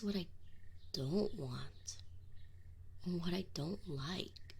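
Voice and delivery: voiceless, breathy admission; whispered. Acted. Demon telling summoner what he dislikes, whispered. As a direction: let it out in a whisper.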